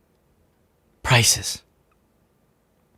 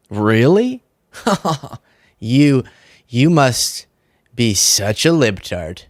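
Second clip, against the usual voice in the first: slow, mock-incredulous sneer with a chuckle; condescending mockery; slower than usual. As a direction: talk down to her like she is a fool. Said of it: "they would condescendingly go".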